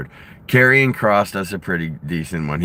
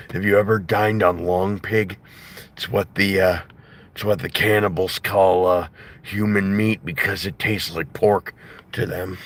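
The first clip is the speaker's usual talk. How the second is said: Jesse Ventura impression. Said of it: "Will Sasso's impression of Jesse Ventura".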